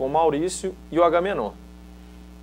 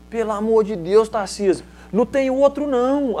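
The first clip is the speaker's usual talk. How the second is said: desperate plea; 7 semitones higher than usual. Retold or imitated. Desperate coach retold.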